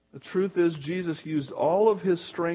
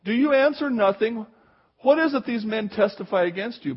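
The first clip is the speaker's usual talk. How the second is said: mild high priest demand; 5 semitones higher, 4 dB louder than usual. Retold or imitated. High priest presses again.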